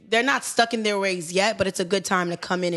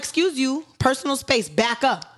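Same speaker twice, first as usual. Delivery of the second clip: stern teacher; 5 semitones higher than usual. Retold or imitated. Teacher telling boy off.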